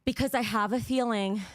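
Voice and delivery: breathless after jumping jacks; panting between words; out of breath. Real, not acted. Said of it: "sorry, I'm out of breath".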